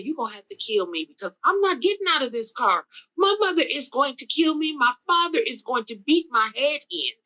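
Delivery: insistent, pitch climbing on the pleas; defiant refusal. Retold or imitated. Telling the carjacker she won't leave the car, defiant. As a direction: dig in and refuse to budge.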